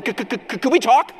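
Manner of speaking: nervous stammering start, then blurting the question; awkward stammer. Retold or imitated. Nervous suitor stammers to the father, awkwardly. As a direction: stammer it out, then rush the ask. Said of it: "You know, really awkwardly".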